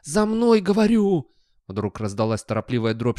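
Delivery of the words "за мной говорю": high, loud call after someone; urgent command. Acted. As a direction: order a straying dog back. Dog calls back straying dog.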